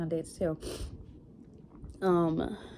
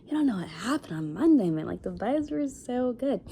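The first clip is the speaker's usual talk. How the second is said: retold protest; 5 semitones higher, 3 dB louder than usual. To her friend defending being upset, emphatic retold protest. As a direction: plead your case to a friend, voice lifting. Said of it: "And I'm like".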